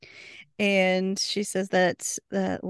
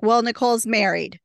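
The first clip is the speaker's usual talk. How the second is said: blurting Waverly; 4 semitones higher, 5 dB louder than usual. Retold or imitated. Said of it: "she's like".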